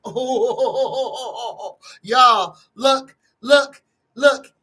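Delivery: laughing, then a loud, excited call to look; thrilled that the card flipped over, call viewers to look. Real, not acted. A reader calls her viewers to see the card, loud and excited.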